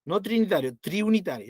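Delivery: "triunitario" marcado contra "trinitario"; contraste de palabras. Shown as a demonstration. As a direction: corrige con énfasis: no "trinitario", sino "triunitario". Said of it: "es una broma". (recalca "triunitario" frente a "trinitario")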